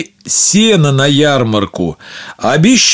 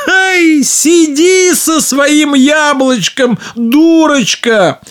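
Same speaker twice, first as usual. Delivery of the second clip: higher, scornful teasing sister; mocking; 12 semitones higher than usual. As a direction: sneer at her from above. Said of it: "да над Машенькой посмеивается".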